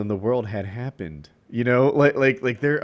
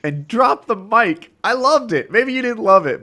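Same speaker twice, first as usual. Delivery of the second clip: excited; 10 semitones higher, 5 dB louder than usual. Real, not acted. Fan praising the mic drop, loud and excited. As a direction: gush about it.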